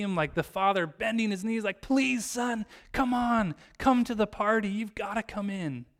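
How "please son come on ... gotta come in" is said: acted pleading. Father entreating his son to join the party, acted pleading. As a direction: beg him gently but urgently. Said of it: "entreat is like this strong ask".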